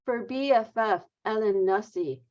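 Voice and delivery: measured poetry-reading delivery; poem reading. Real, not acted. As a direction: read the poem line by line, pausing at breaks. Poet reads own poem aloud.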